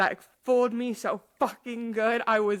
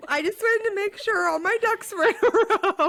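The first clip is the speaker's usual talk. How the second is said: much higher, eager reply; high eager quote; 12 semitones higher, 4 dB louder than usual. Retold or imitated. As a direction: sweetly reassure the author. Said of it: "I was like".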